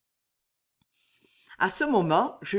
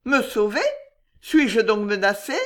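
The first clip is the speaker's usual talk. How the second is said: frightened lady; 4 semitones higher, 6 dB louder than usual. Acted. Jeanne, frightened mistress.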